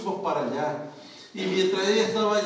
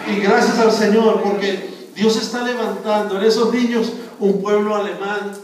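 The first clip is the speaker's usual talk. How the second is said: full-force preaching; 7 dB louder than usual. Acted.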